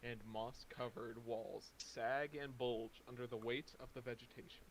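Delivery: dramatic scene-setting narration; game master narration. A narrator's reading. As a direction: set the gloomy scene. GM scene description.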